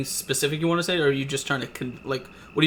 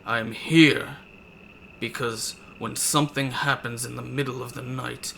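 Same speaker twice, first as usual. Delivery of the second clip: slow, measured lawman's rebuke; lightly voiced sheriff, slow and cold; stern sheriff; slower than usual. Sheriff coldly lectures the party, slow and measured. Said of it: "he says".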